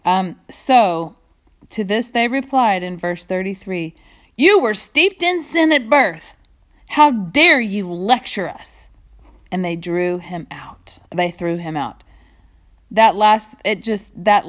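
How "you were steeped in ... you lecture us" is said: high, loud outrage, then slow; indignant rebuke. Acted. Pharisees furious at the healed man lecturing them, loud. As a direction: scold him with contempt.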